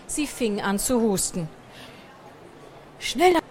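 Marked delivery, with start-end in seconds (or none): 3.0-3.4 high, urgent gasped call; gasping. A narrator's reading. Mouse choking in smoke urges the others on, gasping. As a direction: hurry them on, short of air. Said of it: "keuchte Pomme de Terre".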